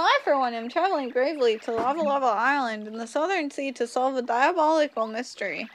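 a hint of a posh adventurer, brisk; lightly voiced boastful archaeologist; pompous explorer. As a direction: read it like a proud gentleman explorer. Voices the NPC Colorado.

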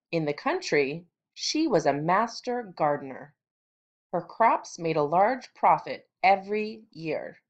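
story read aloud with clear punch on key words; expressive read-aloud. Shown as a demonstration. Teacher reading a rabbit story to students, expressive stress. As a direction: model emphatic reading for the class. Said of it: "Okay, here I go. Listen for the stress".

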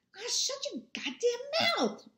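a scornful brother cutting him off; Jewel angry. Acted. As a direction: snap at him like an angry son. Jewel snaps at his brother.

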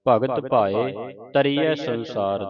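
measured Gurbani recitation with drawn-out vowels; scripture recitation. Acted. Teacher reciting Gurbani for students to follow, measured recitation. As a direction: recite each phrase clearly, pausing between phrases.

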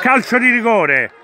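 excited call. Real, not acted. Penalty called, live commentary.

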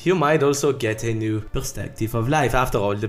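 put-on English with a thick French accent. I hope you all enjoyed, uh, my French accent.

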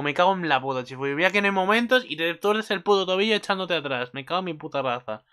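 mock-furious cursing at the character; frustrated fan outburst; exasperated rant. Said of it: "Y digo".

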